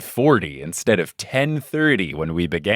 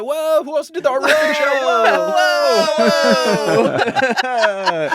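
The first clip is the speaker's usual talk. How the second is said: mock surprise; 4 dB louder, slower than usual. Mock shock at boss guest.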